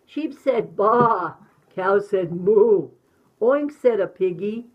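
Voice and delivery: animated, rhythmic picture-book narration; reading to children. A narrator's reading. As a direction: bounce through the rhyme with sound effects.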